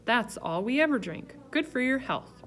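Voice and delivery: boisterous guest holding forth; Mister Yarby, jovial. A narrator's reading.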